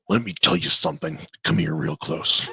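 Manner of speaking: light wrestling promo impression; Randy Savage. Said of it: "I'll go with the old Randy".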